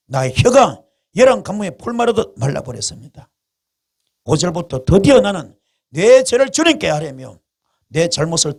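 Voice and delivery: loud, earnest psalm reading; scripture reading. Acted. Pastor reading Psalm 32 to the congregation, fervent. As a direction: read the psalm out with fervour. Reads psalm aloud in sermon.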